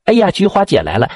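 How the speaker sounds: high, happy cry of welcome; acted glad surprise at a visitor; delighted greeting. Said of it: "可高兴了".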